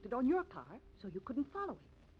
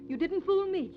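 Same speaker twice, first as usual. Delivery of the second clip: rising to a loud, higher accusing cry; angry outburst; 7 semitones higher, 9 dB louder than usual. Acted. Accused woman lashing out at the woman she attacked, angrily. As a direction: throw the accusation back at her hard. Mrs. Jordan confronts her accuser.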